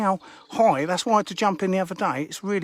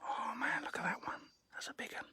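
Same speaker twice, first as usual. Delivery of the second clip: still whispering; 18 dB quieter than usual. Real, not acted. Angler keeps whispering to viewers outside the kitchen, whisper. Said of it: "Why am I still whispering?".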